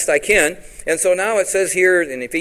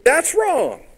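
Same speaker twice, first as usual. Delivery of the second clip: put-on boyhood protest; 11 semitones higher than usual. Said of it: "and I said".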